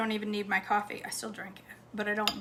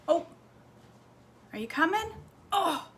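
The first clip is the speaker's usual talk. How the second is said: pet voice; 8 semitones higher than usual. Real, not acted. Dog climbing the stairs.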